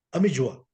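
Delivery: "Amelloa" said the Portuguese way, falling at the end; Portuguese-accented "Amelloa", without a lengthened final vowel; Portuguese pronunciation. Shown as a demonstration. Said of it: "Así se pronuncia". ("Amelloa" con pronunciación portuguesa)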